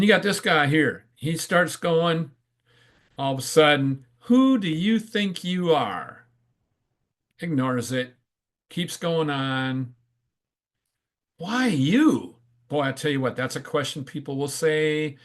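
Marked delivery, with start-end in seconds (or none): 4.2-6.3 high, drawn-out challenge; mock yell, starting high and falling away; slow, high jeer; heckling frog's yell. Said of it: "what the other frogs are yelling". 11.4-12.4 high-pitched challenge; mock yell from a doubting onlooker; heckling frog's yell. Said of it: "what the other frogs are yelling".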